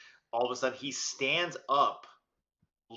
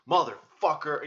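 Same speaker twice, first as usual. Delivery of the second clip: mild retold outburst, higher and louder; exasperated curse; 4 semitones higher, 6 dB louder than usual. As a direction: cuss under pressure, half in earnest. Retold outburst at airport security.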